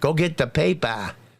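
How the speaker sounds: attempted New England accent, put on. After the Concord pronunciation, the one phrase known in New England accent. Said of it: "The only thing I know in New England accent is".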